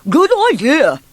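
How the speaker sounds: loud, high, through a bun; mouth full. Acted. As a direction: chew while agreeing. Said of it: "with his mouth full of his sixth iced bun".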